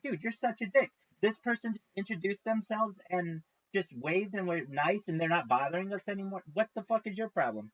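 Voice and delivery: indignant scolding. Acted. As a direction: act out a bystander calling someone out. Acts out cafe crowd scolding.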